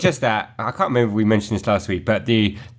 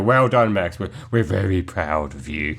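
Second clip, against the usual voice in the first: mock-proud; 4 semitones lower than usual. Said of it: "quote unquote".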